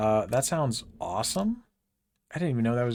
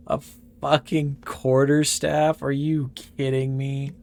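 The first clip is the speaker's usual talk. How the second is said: outraged disbelief; 4 semitones higher, 6 dB louder than usual. Real, not acted. Outraged at bad weapon drop.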